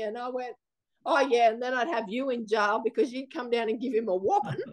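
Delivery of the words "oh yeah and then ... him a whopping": chuckling through a joking reply; amused, half-laughing retort. Retold or imitated. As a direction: laugh it off while teasing.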